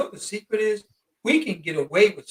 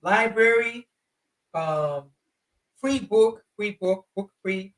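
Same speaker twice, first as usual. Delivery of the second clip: halting broken English; much slower than usual. Retold or imitated. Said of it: "That's how they'll talk".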